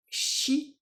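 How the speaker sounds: "shi," breathed out unvoiced and high; a hushed Japanese shi; whispered shi. Shown as a demonstration. Teacher showing students the shi sound, whispered. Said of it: "qui se prononce bien chat en japonais".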